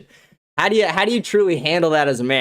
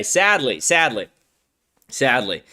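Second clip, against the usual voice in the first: each sadly lower and fading off; mock mournful, sinking lower each time; 4 semitones lower, slower than usual. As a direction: fake lament, trailing away. Mock lament about donations.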